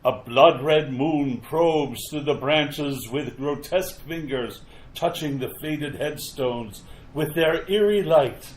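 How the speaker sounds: measured, atmospheric scene-setting narration; story narration. A narrator's reading. Narrator opens a graveyard tale, ominous story narration. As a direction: set an eerie graveyard scene, unhurried.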